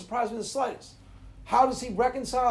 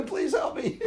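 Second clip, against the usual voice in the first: laughing, pleading wife voice, higher; mock wife; 3 semitones higher than usual. Imitating his wife pleading for help, laughing. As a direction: beg for help while laughing. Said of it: "she'll go".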